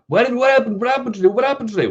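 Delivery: high-pitched, puzzled repeated questioning; confused viewer. Retold or imitated. Viewer asking the trader what happened, high and puzzled. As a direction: squeak out the question like a baffled follower. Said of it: "And somebody asked me".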